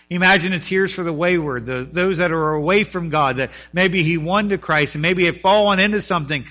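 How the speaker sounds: earnest preaching. Acted. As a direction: press it on the congregation. Preaches with force.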